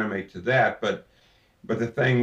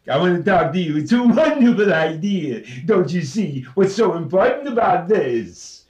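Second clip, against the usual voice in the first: higher, louder, big blossoming Phil Silvers voice; enlarged Phil Silvers; 7 semitones higher, 8 dB louder than usual. Shown as a demonstration. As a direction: push it way out from the diaphragm, bright and big. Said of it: "the way I do it with the enlargement is".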